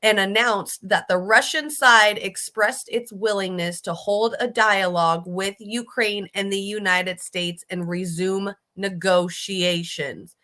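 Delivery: reads it slowly, every word weighted; slow it down so the words land; deliberate, emphatic reread; pointed reading. Shown as a demonstration. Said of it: "listen to this".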